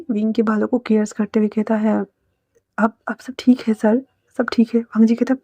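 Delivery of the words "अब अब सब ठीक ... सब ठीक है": soft, hushed comforting; calm someone who has been crying; soothing reassurance. Acted. Comforts the weeping man while caressing.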